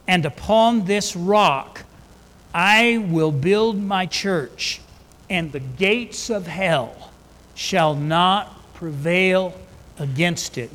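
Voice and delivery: slow, weighty reading of the verse; solemn scripture reading. Acted. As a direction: let each word of the promise land.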